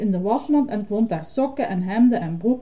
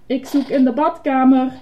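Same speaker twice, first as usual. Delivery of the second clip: higher, louder announcement; calling out; 5 semitones higher, 6 dB louder than usual. Acted. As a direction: call it to someone further off. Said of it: "riep Bert". (luid roepend aankondigen)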